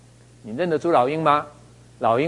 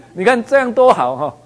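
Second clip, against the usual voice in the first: laughing; 8 semitones higher, 6 dB louder than usual. Real, not acted. Joking aside after a laugh.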